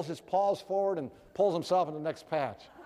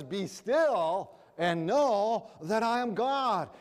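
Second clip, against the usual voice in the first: voice of God; 4 semitones higher, much slower than usual. Acted. Preacher voices God speaking.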